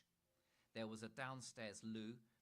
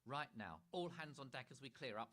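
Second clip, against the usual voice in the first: louder commanding posh mother; rally them like a captain; bossy Mother; 4 semitones higher, 4 dB louder than usual. Acted. Mother ordering family to tidy, louder bossy call. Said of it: "said Mother".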